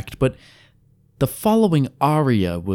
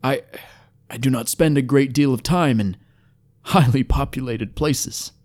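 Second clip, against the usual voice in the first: lightly voiced, halting formal elf; uneasy elf; 4 semitones higher than usual. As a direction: admit it haltingly, a touch reserved. Wary elf admits unease with cities.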